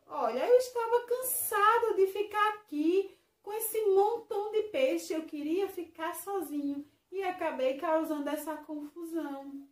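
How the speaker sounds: high, loud rushed confession; confessing. Acted. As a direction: blurt out the confession. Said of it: "o Pipoca acabou confessando". (confissão aguda e alta)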